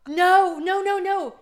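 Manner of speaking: high, loud string of startled noes; shocked protest. Real, not acted. Cohost reacting to the story's vodka mix-up, shocked protest.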